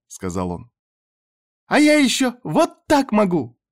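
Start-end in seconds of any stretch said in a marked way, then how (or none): 1.7-3.6 put-on much higher, louder happy child's cry; joyful shout. A narrator's reading. Little girl waving both arms from the treetop, shouting with joy. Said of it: "радостно закричала".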